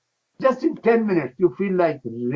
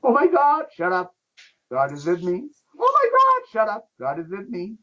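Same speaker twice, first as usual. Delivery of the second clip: mock panicked fretting; 5 semitones higher than usual. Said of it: "Your box people are living with anger, fear".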